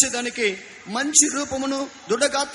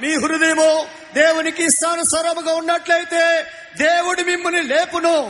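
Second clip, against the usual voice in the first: preaching at full force; 3 semitones higher than usual. Acted.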